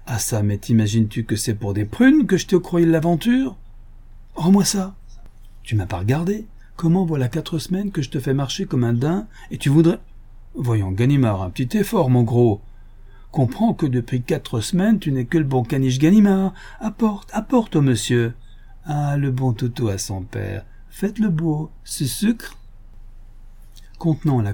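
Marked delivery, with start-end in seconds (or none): 0.1-16.5 gleeful taunting thief; mocking Lupin. Lupin mocks the inspector as a poodle, lightly voiced. 16.8-22.6 sing-song coaxing a pet; talking to a dog. Acted. Lupin mocks Ganimard as a dog, coaxing baby talk.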